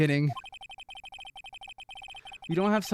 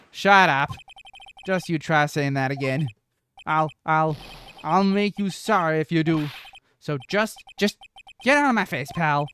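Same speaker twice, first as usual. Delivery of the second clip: angry Detective Gumshoe. Acted. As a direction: bite the recruit's head off, pal. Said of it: "Detective Gumshoe's kinda scary today".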